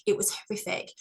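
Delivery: whispered horror. Real, not acted. Coach whispering about a horrific vision, hushed. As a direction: breathe it out, unvoiced.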